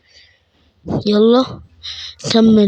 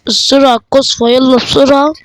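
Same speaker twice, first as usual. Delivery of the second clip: excited urging; 3 semitones higher, 4 dB louder than usual. Real, not acted. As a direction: push the train on eagerly. Urging the train to go. (حماس وصوت عالي)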